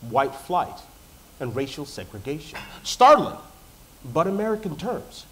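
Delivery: polished, rehearsed presentation delivery; measured public-speaking cadence with dramatic pauses; formal speech. Acted. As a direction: address the judges like a practiced keynote. Memorized three-minute research talk.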